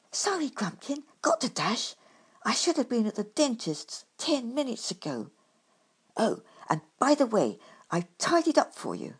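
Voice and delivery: lightly voiced hurried badger; badger in a hurry. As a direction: dash it off, a hint of a rushed badger. Badger's voice in story.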